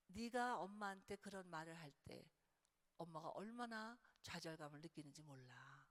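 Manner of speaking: sincere. Shown as a demonstration. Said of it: "자기 고백을 하면 돼요".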